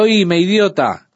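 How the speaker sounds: a slow, hammed-up yell at a reckless driver; retold shout. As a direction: snap it out high and loud like a furious driver. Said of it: "y le grito". (grito fingido, lento, más agudo y fuerte)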